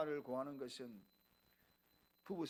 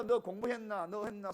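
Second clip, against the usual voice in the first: scolding father; 3 semitones higher, 8 dB louder than usual. Acted. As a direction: act out a father telling off his children. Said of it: "손가락질하고 혼낼 거 이야기하면".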